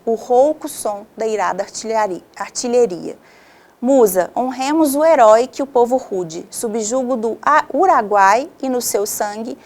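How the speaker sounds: measured epic verse reading, lifting on Musa; poem recitation. Acted. Teacher reading O Uruguai aloud to class, in solemn recitation.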